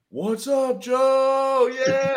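imitating a teammate's hyped welcome; excited greeting. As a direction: greet him like a pumped-up teammate.

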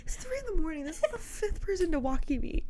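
mock whine, like someone woken at three; whiny, at wits' end. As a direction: whimper it, fed up and sleepy. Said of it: "She's, like, losing it".

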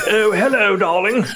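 Prince Charlie. Retold or imitated. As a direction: ham up a leering royal greeting. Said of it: "Prince Charlie coming along".

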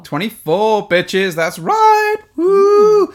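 high, loud whooping hype; hyped-up announcing. Pretend. Host hyping up episode twenty-four, whooping excitedly. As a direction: holler it like a party MC.

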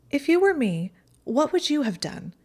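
a hint of a tremor under the bravado; mildly shaken Pansy defending herself; slightly shaking. A narrator's reading. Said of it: "Pansy's voice shook slightly".

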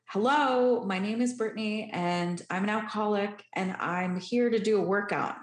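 high, loud opening hello, then settling; a mock loud confession to a room of strangers; very loud greeting. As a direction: announce yourself loudly to the whole gym. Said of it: "I very loudly said".

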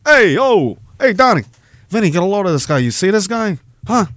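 hammed-up wiseguy taking offence, pitched high; offended mobster. Acting out the mobster scene a donor referenced, indignant wiseguy voice. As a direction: play the insulted mob boss in front of his crew.

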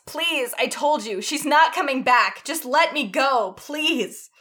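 slow, high, loud begging; desperate slow pleading. A narrator's reading. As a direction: beg to be let go. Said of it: "Adora has never heard Catra plead like that".

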